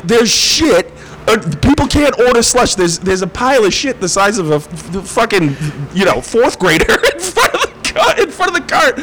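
high, cracking up mid-complaint; laughing rant. Retold or imitated. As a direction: explain it while breaking into laughter. Ranting on phone, laughing.

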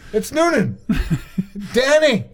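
high, laughing squeal of the name; mock excited. Wife recognizes the actor, imitated high and excited. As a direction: squeal it like a delighted fan. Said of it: "my wife looked at me and went".

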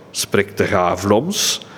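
put-on slow, surprised question in a mild Antwerp accent. Old woman asks the Chinese neighbour in an Antwerp accent. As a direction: drawl it out in broad Antwerp dialect. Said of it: "Dus in het Antwerps accent".

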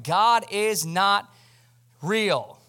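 firm mock proclamation, word by word; acted defiant declaration. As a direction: voice someone flatly renouncing their faith. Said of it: "They're going".

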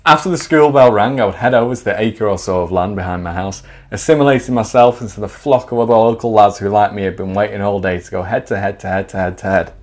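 measured storyteller voice; story narration. Acted. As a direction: read it like a comic memoir. Reads his story aloud.

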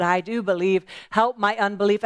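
a touch fuller, earnest cry; tearful cry. Acted. Father weeping before Jesus, a mild tearful cry. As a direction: cry it out with tears. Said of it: "With tears".

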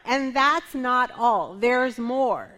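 slow, punchy sales pitch; infomercial pitch. Pretend. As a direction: sell it like a TV ad. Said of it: "Am I sounding like an infomercial here?".

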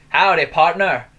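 put-on loud cowboy greeting in a mixed Asian-English accent. Retelling a stranger's cowboy greeting, mixed Asian-English accent. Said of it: "a weird mix between Asian accent and normal, like, English accent".

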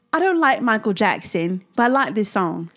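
lightly attempted British accent; a half-hearted go at sounding British. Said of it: "That was my British accent".

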